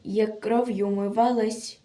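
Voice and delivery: measured, theatrical verse delivery; dramatic poem recitation. Acted. Reciter tells of a captured partisan girl, dramatic declamation. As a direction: declaim a solemn war poem with feeling.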